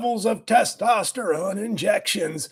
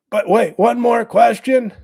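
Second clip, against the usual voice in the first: calling out; 6 dB louder than usual. Real, not acted. Calling back the crowd for more.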